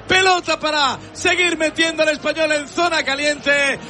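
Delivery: rhythmic goal replay call; live play-by-play. Acted. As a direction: pile up the phrases like a commentator.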